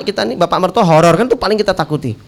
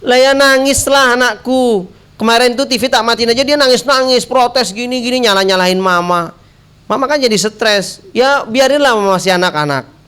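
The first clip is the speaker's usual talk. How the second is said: high-pitched complaining mother; protesting wife; 5 semitones higher than usual. Acted. Wife objecting to husband's TV ban, high protest. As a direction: plead the child's case in a raised pitch. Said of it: "Apa kata si mamahnya ini, istrinya ini?".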